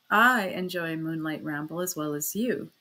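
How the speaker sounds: even, unhurried and controlled; steady, calm answer. Acted. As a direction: hold her gaze and answer coolly. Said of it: "I answered steadily".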